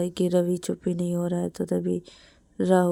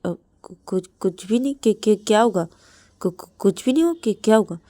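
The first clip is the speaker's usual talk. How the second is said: nervous stammer; 3 semitones higher, 5 dB louder than usual. Acted. Suti stammering nervously to Siya.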